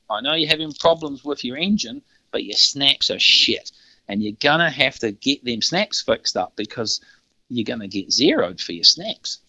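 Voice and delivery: lightly imitated Canadian accent; attempted Canadian accent. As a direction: have a half-hearted go at a Canadian accent. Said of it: "he said in a Canadian accent".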